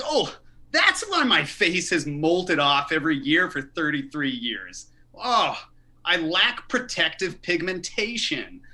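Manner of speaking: sarcastic sudden revelation; mock realization. Comedian answering a lady who called him pale, mock realization.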